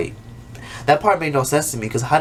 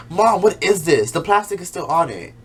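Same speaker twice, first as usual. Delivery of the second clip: bratty complaint; 5 semitones higher than usual. Retold or imitated. Miranda complaining to her mom, higher and bratty. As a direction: sound like a spoiled kid. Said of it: "Miranda has the nerve to say".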